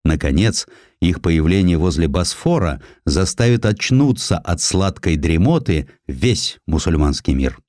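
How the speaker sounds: plain reading voice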